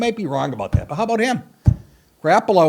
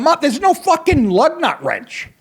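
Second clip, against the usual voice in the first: high, slow, frustrated whine; a stranded man cursing his luck; exasperated; 10 semitones higher, slower than usual. Retold or imitated. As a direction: raise it and drag it out in disbelief. Stranded, swearing at missing wrench.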